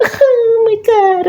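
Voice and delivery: high, slow, laughing oh my God; cracking up in disbelief. Real, not acted. Laughing at the fans, high and slow.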